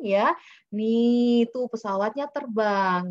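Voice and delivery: put-on high, loud, slow wonder for a toddler; excited parent. Shown as a demonstration. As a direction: make the plane thrilling for a child. Showing a toddler a plane card.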